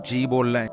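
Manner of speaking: polite جی instead of ہاں; polite jee. Shown as a demonstration. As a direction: answer with a gentle جی. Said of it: "ہاں نہیں بولنا".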